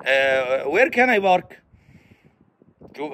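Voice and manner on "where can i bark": PARK said as "bark", with a b; mispronounced English. Acted. Learner asking a traffic officer, mispronounced English. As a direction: say park with a heavy Arabic b. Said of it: "فيقول له إيه".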